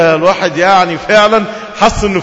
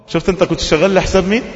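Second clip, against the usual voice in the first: ordinary talk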